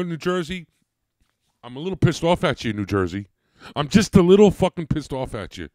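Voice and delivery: real loud, rising exasperated rant; angry rant. Real, not acted. Real rant at New Jersey.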